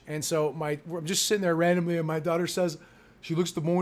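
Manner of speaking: usual speaking voice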